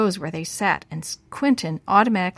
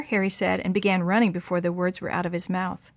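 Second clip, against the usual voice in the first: ordinary delivery, nothing marked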